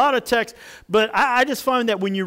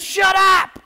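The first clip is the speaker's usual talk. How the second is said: high, loud comic shout; mad; 13 semitones higher, 8 dB louder than usual. Acted. Fed-up Moses silencing the complainers, mock-furious shout. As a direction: yell it like someone who has had it. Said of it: "He was really, really mad".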